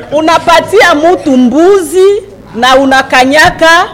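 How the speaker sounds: words spilling out through laughter; amused, laughing delivery; laughing while speaking. Real, not acted. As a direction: let the laugh carry the proverb. Explains proverb, laughing.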